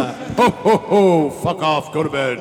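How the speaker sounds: loud grumpy Santa; rude Santa. Retold or imitated. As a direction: Santa telling kid off.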